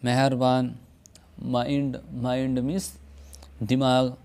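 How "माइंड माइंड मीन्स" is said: माइंड with a long आई glide; English word mind. Shown as a demonstration. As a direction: stretch माइंड's vowel. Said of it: "यानी खींच कर पढ़ा जाता है". (माइंड, खींच कर)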